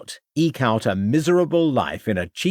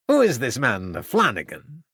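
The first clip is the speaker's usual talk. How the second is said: puzzled Turco. Acted. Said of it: "Asked a puzzled Turco".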